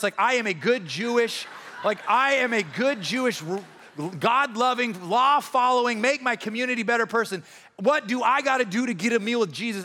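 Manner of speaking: acted aggrieved good citizen; indignant self-righteousness. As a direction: plead your spotless record, exasperated. Acts indignant law-abiding crowd member.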